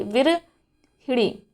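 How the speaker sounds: विरहिणी stretched out very slowly, each syllable apart; teacher spelling out विरहिणी by sound; slow enunciation. Shown as a demonstration. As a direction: draw out विरहिणी for memorising. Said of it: "ऐसे याद कर लीजिए".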